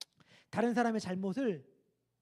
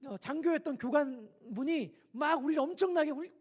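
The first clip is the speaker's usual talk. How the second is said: normal talking voice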